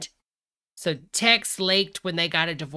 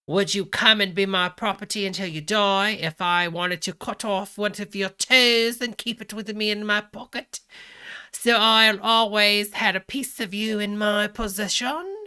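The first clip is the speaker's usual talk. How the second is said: loud mock-Cockney proposition; hammed-up British Cockney, read with relish; 3 semitones higher, 6 dB louder than usual. Asking the ex to be property, in loud mock Cockney. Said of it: "he's reading it British Cockney".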